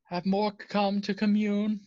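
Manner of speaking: measured, lifted female character voice; female cultist voice. Acted. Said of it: "you hear the voice, female".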